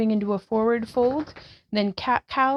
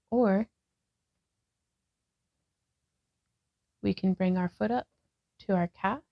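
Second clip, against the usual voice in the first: guided yoga instruction; 2 semitones lower than usual. Acted. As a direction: talk the class through each pose gently. Leads a yoga class.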